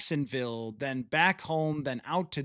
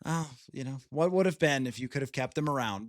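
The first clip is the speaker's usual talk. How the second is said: mock wistful; 3 semitones lower than usual. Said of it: "left wondering".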